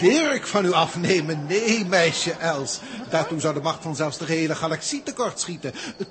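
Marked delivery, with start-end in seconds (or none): 0.0-4.5 emphatic refusal. Acted. The professor loudly refuses to take Dirk from Els. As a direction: make the refusal ring out.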